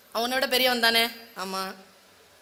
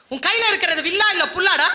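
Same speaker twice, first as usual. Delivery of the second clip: higher, louder taunt; angry insult; 4 semitones higher, 4 dB louder than usual. Acted. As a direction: spit out the insult about the bow. Elder brother insulting Arjuna's bow. (காண்டீபத்தைப் பழித்து தர்மர் கோபமாகக் கேட்பது)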